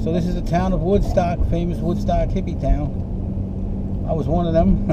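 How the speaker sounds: talking while the car bounces; on a bumpy road. Real, not acted. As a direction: voice jostled by a bumpy ride. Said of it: "Sorry about the bumpy roads".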